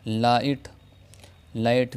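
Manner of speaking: लाइट with long आई, gh silent; English word light. Shown as a demonstration. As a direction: model लाइट cleanly. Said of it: "जीएच की आवाज़ खामोश". (लाइट, जीएच खामोश)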